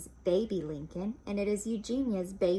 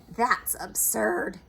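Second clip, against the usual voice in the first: slow, louder dismissive; scoffing; 4 dB louder, slower than usual. Acted. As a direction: drag it out with disdain. Eugenia scoffs.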